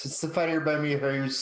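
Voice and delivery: mock Irish with "house" said like "hoose"; attempted Irish accent. Copying the coach's tip, attempted Irish accent. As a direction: round "house" into an oo sound. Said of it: "you gotta have the ooze in it".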